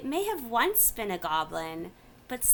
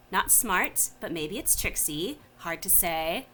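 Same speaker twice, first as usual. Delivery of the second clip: lightly voiced mad creature, musing to itself; a Mad Hatter of a goblin, puzzling aloud; muttering Nilbog; 3 semitones lower than usual. The Nilbog puzzles over the stranger, mildly mad muttering.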